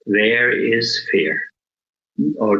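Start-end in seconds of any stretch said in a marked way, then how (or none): 0.1-1.4 calm noting. Shown as a demonstration. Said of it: "you just breathe mindfully and you say".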